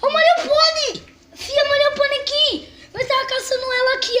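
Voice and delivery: high loud call into the dark. Real, not acted. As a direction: summon the spirit loudly. Calling out to ghost.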